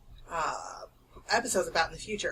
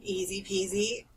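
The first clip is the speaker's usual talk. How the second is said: whisper; slower than usual. Pretend. Echoing co-host's whisper.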